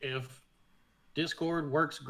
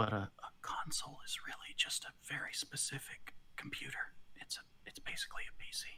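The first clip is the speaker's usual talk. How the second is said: soft, quiet, hushed whisper. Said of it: "I'm just gonna whisper quietly".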